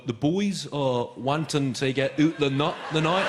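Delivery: a slow, hammed-up try at Scottish slang; bad Scottish attempt. English tourist asking the taxi driver, mock Scottish slang. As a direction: lay the borrowed slang on thick. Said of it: "Ask him where's good".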